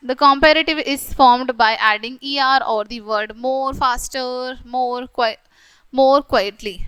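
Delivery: slow, deliberate read-aloud of the example sentences; slow textbook reading. Acted. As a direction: read each word out slowly for the class. Reads rule from textbook.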